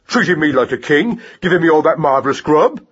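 indignant mouse tirade, rising on outbursts; raging torrent. A narrator's reading. Mouse berating rat-catcher for threatening his mother, indignant tirade. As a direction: scold hotly without letting up. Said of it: "positive raging torrent of words".

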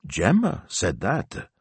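high, slow disbelieving question; startled. A narrator's reading. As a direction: echo it in astonishment.

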